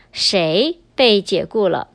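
谁 stressed, slight pause after it; stress on first word. Shown as a demonstration. Teacher shows learners how to emphasize the question word, stressing 谁. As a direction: lean on 谁, then pause briefly. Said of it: "we emphasize the first word".

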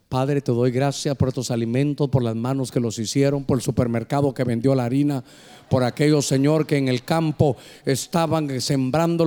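long-winded prayer. Retold or imitated. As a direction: pray on and on, lightly voiced. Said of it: "empezó a orar". (imitación burlona de un pastor que bendice la comida sin parar)

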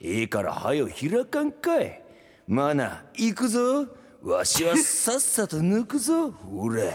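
put-on slow, high old man drawl; pushy old geezer, hammed up; creaky wise old man. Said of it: "skit, Takanori's role".

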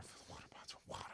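fast, unvoiced whisper; whispered instruction. Jesus quietly repeats the order to servants, whispering. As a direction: hush it like a secret order.

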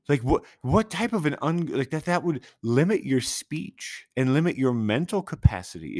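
high-pitched, baffled outburst; worked-up, stumbling bewilderment; incredulous rant. Real, not acted. Baffled rant about banned word.

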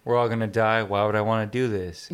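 mock-bored, listless deadpan. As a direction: voice a jaded, over-it character. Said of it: "pretty deadpan, right?".

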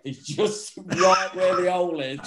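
breaks into a laugh mid-line. Real, not acted. Showing his mate where the hole was, laughing. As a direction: giggle through the punchline. Laughing at own door story.

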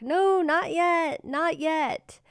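called back. Retold or imitated. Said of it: "we would yell back".

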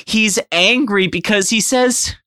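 high, slow trance-like voice; eerie psychic kid voice. Acted. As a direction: speak as if channeling the monster. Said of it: "it'll just be something like".

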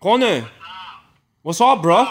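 high, loud Aussie greeting; exaggerated Aussie accent, called out; mock Australian. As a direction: hail a mate in a hammed-up Australian accent. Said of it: "we were just talking Australian".

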